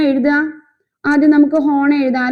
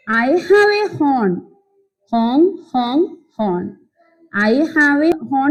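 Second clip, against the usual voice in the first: slow reading aloud; slower than usual. Shown as a demonstration. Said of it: "നമ്മുടെ bus എന്താ പറയുന്നത്?".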